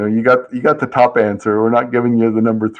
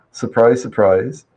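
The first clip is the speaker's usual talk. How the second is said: sarcastic. Real, not acted. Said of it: "you hear the sarcasm in my voice there".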